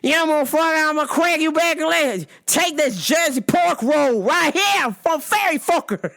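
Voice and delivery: put-on Jersey accent. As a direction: ham up a New Jersey tough guy. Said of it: "you gotta do a Jersey voice".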